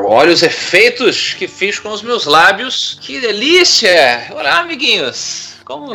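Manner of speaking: sing-song storybook sweetness; cartoon princess. Solano enters doing a voice.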